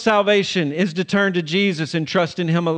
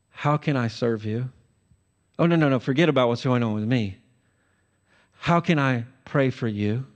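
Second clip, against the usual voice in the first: softer, gentle offer to help; humble servant; 4 semitones lower, 4 dB quieter, faster than usual. Retold or imitated. Walking up to everyone, offering service, softer and gentle. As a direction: set yourself aside, softly caring. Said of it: "you walk up to everyone and say".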